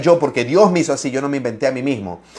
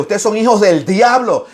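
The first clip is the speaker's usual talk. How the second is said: Jesus rebuking; 6 semitones higher than usual. Retold or imitated. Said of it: "le dijo Jesucristo a los fariseos".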